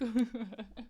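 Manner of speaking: short, confused chuckle; baffled laugh. Real, not acted. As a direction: laugh in disbelief. Laughs at coke misunderstanding.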